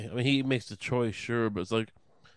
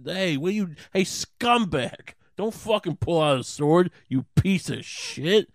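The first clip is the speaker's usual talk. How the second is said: higher, louder, slow mock berating; mock scolding; 6 semitones higher, 4 dB louder, slower than usual. Jesus berating Peter for the sword, hammed-up angry yelling. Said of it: "the moment Peter does something".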